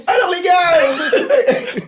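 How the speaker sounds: high, very drawn-out hammed-up call; back in character. Scare actor resuming his role before visitors, high hammed-up call. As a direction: stretch it out like a haunted-house monster. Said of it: "il reprend".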